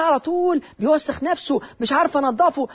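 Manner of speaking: high-pitched mock complaint; imitated woman's plaintive voice; overwhelmed mother. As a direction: complain like a helpless young mother, lightly acted.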